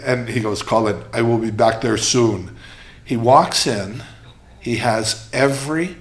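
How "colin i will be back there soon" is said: put-on Swedish accent. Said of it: "Swedish accent".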